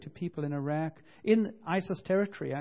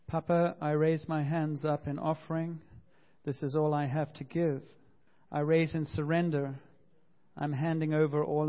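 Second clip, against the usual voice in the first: congregational prayer reading. Shown as a demonstration. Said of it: "Maybe you'd like to read this with me".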